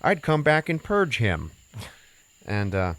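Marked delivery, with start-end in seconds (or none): 0.0-1.5 a hammed-up threat in a higher voice; mock vengeful girl. Imagining the girl's revenge, higher and louder. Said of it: "you know, you're like".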